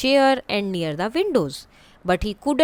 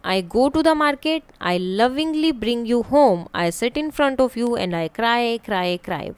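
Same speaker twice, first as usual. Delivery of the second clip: riddle reading; 3 semitones higher, slower than usual. Shown as a demonstration. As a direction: pose the riddle slowly to the class. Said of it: "Now the riddle time".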